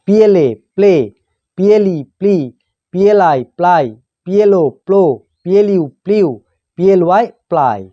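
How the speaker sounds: teacher's measured spelling recitation, pausing between items; pronunciation drill. Shown as a demonstration. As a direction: spell out the letters, then sound the blend. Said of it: "উচ্চারণ এইভাবে হয়". (বানান করে উচ্চারণ শেখানো)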